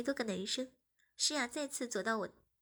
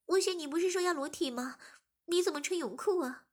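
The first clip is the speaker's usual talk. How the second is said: anxious; 5 semitones higher than usual. Acted. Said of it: "马上着急地说".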